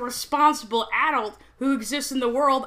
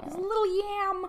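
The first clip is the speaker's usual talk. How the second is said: overwhelmed by cuteness; 7 semitones higher, 5 dB quieter than usual. Real, not acted. Gushing over the lizard.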